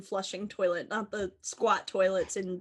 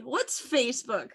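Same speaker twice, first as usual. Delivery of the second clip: slow, ironic clueless zoomer; 3 dB quieter than usual. Pretend. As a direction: play the clueless Gen Z kid. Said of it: "Talking like a Gen Z".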